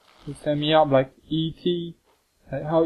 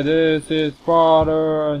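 drawn-out Sparta quote; slower than usual. Acted. Quoting 300 about the immortals.

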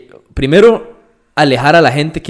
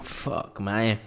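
whispered curse; 5 semitones lower, 14 dB quieter than usual. Retold or imitated. Imagined inner voice after hate.

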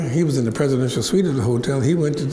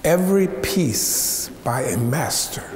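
solemn advice. Retold or imitated. Mother's slow solemn advice.

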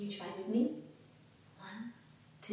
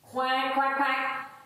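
joking duck quack; slower than usual. Pretend. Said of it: "what does the cow say?".

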